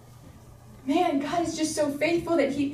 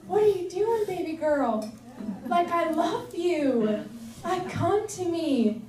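loving coaxing; 4 semitones higher than usual. Acted. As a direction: coax like a loving parent. Voices God lovingly coaxing her.

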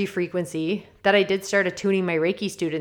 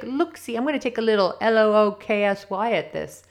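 kitschy playful; 3 semitones higher than usual. Retold or imitated. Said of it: "A kitschy way to say".

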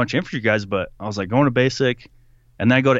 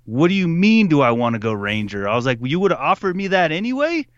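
indignant disbelief; 5 semitones higher than usual. Retold or imitated. Retold indignant reply to sergeant.

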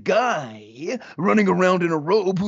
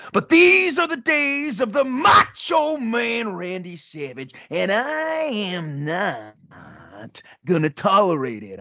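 mock indignant shout. Randy refusing Hulk's plan, in indignant bluster. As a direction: puff up and refuse outright.

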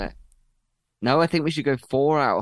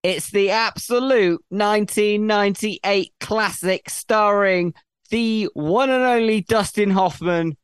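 excited; 6 semitones higher, 3 dB louder, slower than usual. Acted. Grand reveal of the answer.

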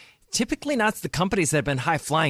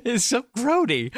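put-on Valley girl; 8 semitones higher than usual. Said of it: "I feel sound like a Valley girl".

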